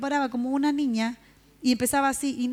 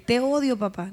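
put-on angry child's outburst; 4 dB louder than usual. Raging child yelling at her father.

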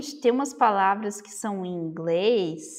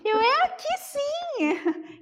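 insistent protest; slower than usual. Retold or imitated. Insisting in the shop.

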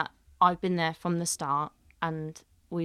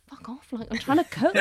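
irritated brush-off; 7 semitones higher, 4 dB louder than usual. Retold or imitated. Irritated at the nagging chef.

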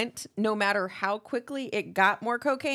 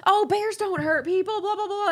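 dismissive know-it-all; 9 semitones higher than usual. Retold or imitated. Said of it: "he was like".

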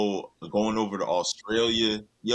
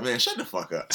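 laughing disbelief. Retold or imitated. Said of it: "And Melo was like".

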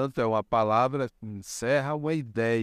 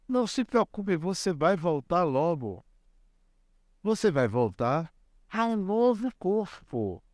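higher, gentle reassurance; soothing grandfather; 5 semitones higher than usual. Retold or imitated. Grandfather comforting his crying grandson, tender and higher.

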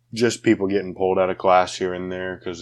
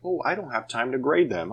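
high, whiny teacher voice; mocking a lazy teacher; 6 semitones higher, 3 dB quieter than usual. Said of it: "They're like".

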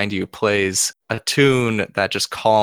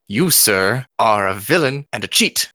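angry challenge. Acted. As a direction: call him out with mild rage. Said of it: "shaking with rage".

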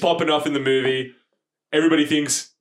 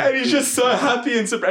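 excited; 8 semitones higher than usual. Retold or imitated. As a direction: voice jumps up high, delighted. Describing Batman's delighted face.

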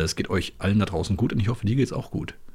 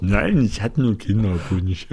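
put-on slower, heavier drunken slur; town drunk; slower than usual. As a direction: drag the words out drunkenly. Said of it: "Sie lallen doch".

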